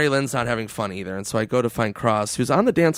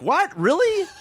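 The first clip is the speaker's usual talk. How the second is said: mock surprise; slower than usual. Feigning surprise to the guard.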